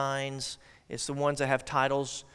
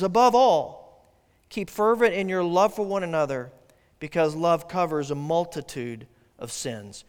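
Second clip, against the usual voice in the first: scripture reading; 3 dB louder than usual. Acted. Pastor reads verse eight to the congregation, solemn. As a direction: read it out solemnly to the church.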